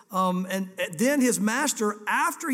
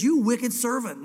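louder, slow king's rebuke on "wicked"; stern rebuke; 5 dB louder, slower than usual. Acted. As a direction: scold the servant with weight. King rebukes the servant loudly.

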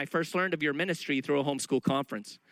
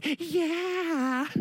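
much higher, proud answer; officer's proud yes; 11 semitones higher than usual. Retold or imitated. The officer admits he set out the tracts, high and proud. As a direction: chirp it like a proud kid.

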